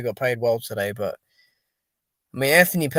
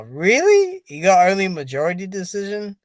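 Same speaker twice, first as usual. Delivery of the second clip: surprised; 4 semitones higher than usual. Real, not acted. Reacting to a surprising fight result.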